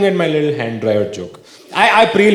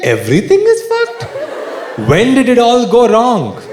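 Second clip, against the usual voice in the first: despairing whine; 5 semitones higher than usual. Retold or imitated. Someone looking out at the world, mock despairing wail. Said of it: "you're like".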